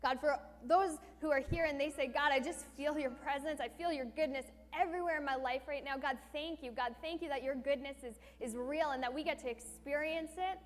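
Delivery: earnest prayer over the congregation, steady and heartfelt; closing prayer. Real, not acted. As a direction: pray over them, addressing God again and again.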